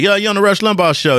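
high, fast host greeting; hammed-up radio host; mock radio host. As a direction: play the host picking up a call. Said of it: "he's like".

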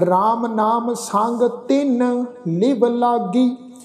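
slow, measured recitation; slow gurbani recitation. Acted. Teacher reciting gurbani verse slowly to students. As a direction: recite each word apart, devoutly.

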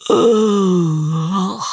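high, drawn-out wordless groan. Acted. Worn-out soldier wanting a break, high groan. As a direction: let out a long, high groan. Sleepy character stretches before a break.

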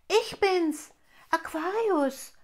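hohe, laute Stimme eines Wassertropfens; Wassertropfen Aquarius. Acted. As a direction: sprich als munterer Wassertropfen, hell und deutlich. Wassertropfen spricht als Figur. (Stimme des Wassertropfens, hoch und laut)

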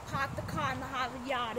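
put-on light Boston accent. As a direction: drop the r's Boston style. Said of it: "Boston accent".

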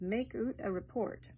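Scots "make oot a report", with "oot" for out; broad Scots vowel in "oot"; Scots accent. Acted. Scots line, then said standard.

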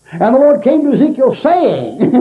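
high-pitched preaching, every word emphasized; Jack Hyles. Retold or imitated. First-time preacher ad-libbing from no notes, mock over-emphatic. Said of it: "he emphasized every word in that thing".

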